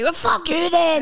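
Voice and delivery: slow, mock-offended sneer; slow sarcastic retort to a driver; sarcastic brush-off. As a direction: throw it at the rude driver. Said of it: "I'm, I'm like".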